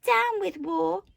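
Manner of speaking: high, slow, loud hooted slogan; drawn-out high protest hoot. A narrator's reading. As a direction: hoot it like a rallying cry. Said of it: "and he hooted".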